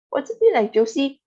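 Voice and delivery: high, loud eager question; excited. A narrator's reading. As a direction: ask with eager delight. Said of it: "asked Grandpa Joe excitedly".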